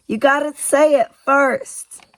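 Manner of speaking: put-on high, loud and slow child shout. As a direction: call it out to the door. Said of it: "she shouted".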